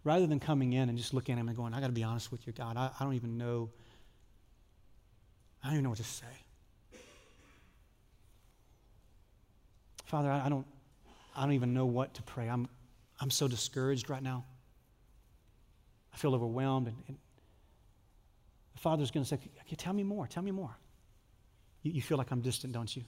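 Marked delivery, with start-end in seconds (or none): 1.7-16.9 honest broken prayer. Pretend. 19.3-20.8 gentle God voice. Pretend.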